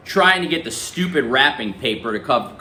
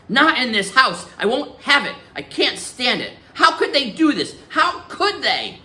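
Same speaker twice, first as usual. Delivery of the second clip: high, tearful pleading; full of tears; 11 semitones higher than usual. Acted. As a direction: cry out the questions in distress. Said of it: "her voice is big and full of tears".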